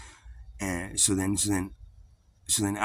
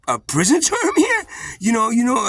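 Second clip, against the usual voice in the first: crying plea; 12 semitones higher, 7 dB louder than usual. Retold or imitated. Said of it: "bawling, crying, man".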